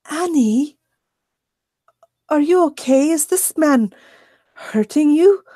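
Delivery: a hint of an anxious coworker; concerned woman. Coworker walking in, worried about Annie.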